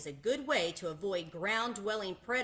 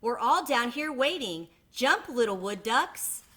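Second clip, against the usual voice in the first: higher, louder coaxing call; mama duck urging her ducklings to jump; 4 semitones higher, 5 dB louder than usual. Acted. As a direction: encourage them up in the tree.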